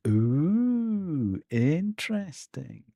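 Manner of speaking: drawn-out, intrigued ooh. Real, not acted. Reacting to surprise game result.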